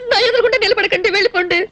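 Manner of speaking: tearful dismissal; on the verge of crying. Acted. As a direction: send him away through tears. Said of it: "ఎందుకు ఏడుస్తున్నట్టు?".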